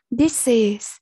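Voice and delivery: "Dishes" in two syllables, ending in -iz; teacher's careful "Dishes", sounding the -es. Shown as a demonstration. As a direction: model "Dishes" carefully with a full final syllable. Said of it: "câu A là either".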